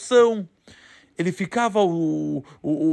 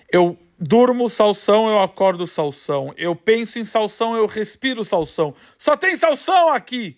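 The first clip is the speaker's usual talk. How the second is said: overwhelmed farmer; 3 semitones higher than usual. Acted. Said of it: "Ele falou, Se brotaram".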